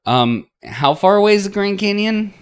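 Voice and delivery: put-on high, hopeful girlish voice; Marina's voice. Marina hopefully asking about the Grand Canyon, high voice.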